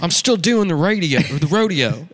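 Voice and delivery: a touch of a loud, high macho cowboy; hammed-up rodeo cowboy bragging; mock cowboy. Acting out the cowboy movie scene.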